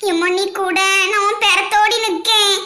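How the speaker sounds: choked, crying plea to her mother; tearful fear. Acted. Bride crying to her mother, scared of the wedding, in tears. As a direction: whimper it out, scared and teary.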